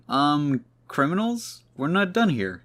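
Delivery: lightly voiced puzzled hero, pitch jumping up; a mock double take at the escaping criminals; incredulous questioning. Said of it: "is just questioning".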